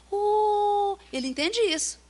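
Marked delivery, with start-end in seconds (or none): 0.1-1.0 mother's soothing coo. Shown as a demonstration. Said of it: "Aquele jeito da mãe fala assim".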